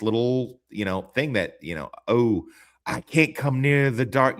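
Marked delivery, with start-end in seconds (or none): 2.1-4.4 slow, louder put-on Irish brogue; mock Irish accent. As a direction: imitate an actor's struggling Irish accent. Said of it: "struggled with the fucking Irish accent".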